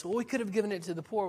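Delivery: a mocking take on the disciples' self-righteous line; self-righteous objection. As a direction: toss it off like a pious excuse. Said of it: "they throw up this".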